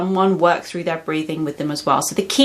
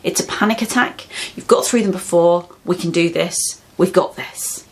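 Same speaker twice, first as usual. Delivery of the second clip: reassuring. Shown as a demonstration. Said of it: "that kind of reassuring".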